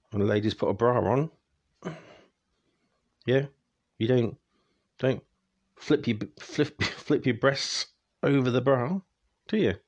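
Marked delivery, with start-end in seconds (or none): 3.2-9.7 laughing. Real, not acted. Laughing at own joke.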